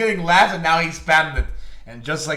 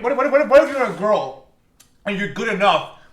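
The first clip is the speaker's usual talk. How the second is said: excited; 4 semitones higher, 6 dB louder than usual. Real, not acted. Heated argument about women's football.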